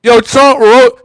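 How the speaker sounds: hyped up. Real, not acted. Cheering on the president's roast, hyped and high. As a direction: whoop it up, stretching the words.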